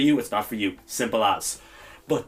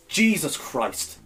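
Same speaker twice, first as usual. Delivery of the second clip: exasperated sigh; much slower than usual. Real, not acted. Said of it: "I'm seething".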